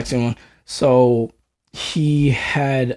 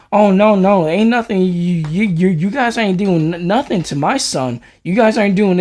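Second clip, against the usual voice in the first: 1 protective mom; 7 semitones higher, 4 dB louder than usual. Retold or imitated. Latina mom defending her son.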